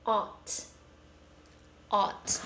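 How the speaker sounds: ought said with an open American ah, /ɑt/; American ought sound. Shown as a demonstration. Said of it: "It is read as".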